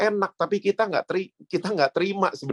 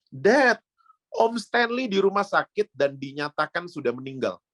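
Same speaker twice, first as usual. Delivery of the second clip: retold crying daughter; 5 semitones higher than usual. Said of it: "dia nangis-nangis".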